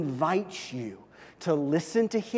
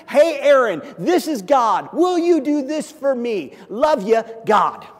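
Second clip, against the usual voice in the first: billboard message from God; 7 semitones higher, 9 dB louder than usual. Retold or imitated.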